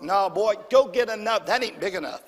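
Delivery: loud scolding mother; mama scolding. Retold or imitated. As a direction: bark it like an annoyed mama. Mother voiced in story.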